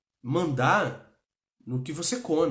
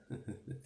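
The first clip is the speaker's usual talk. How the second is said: low, quiet laugh to oneself; real stifled little laugh; soft chuckle; 3 semitones lower, 15 dB quieter than usual. Real, not acted. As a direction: chuckle briefly under your breath. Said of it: "Eu tô rindo porque".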